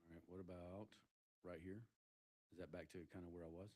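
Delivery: uneven auto gain. Real, not acted. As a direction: voice sounding distant and low. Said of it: "you're still kinda low".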